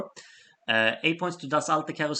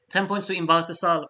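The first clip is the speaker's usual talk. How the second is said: hiccup breaks in the words; 5 semitones higher, 6 dB louder than usual. Real, not acted. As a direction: announce points while hiccuping. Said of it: "I got the hiccups now".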